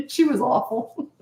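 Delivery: high, drawn-out through laughter; laughing. Real, not acted. Coach recalling an awful childhood acquaintance, laughing. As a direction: laugh your way through the words.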